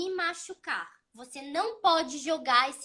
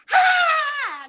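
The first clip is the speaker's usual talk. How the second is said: sudden high loud shout of protest; child's angry yell; 13 semitones higher, 9 dB louder than usual. Retold or imitated. Mother imitating her son's angry scream when the TV goes off. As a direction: shriek like a furious little boy. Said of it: "Gritou assim".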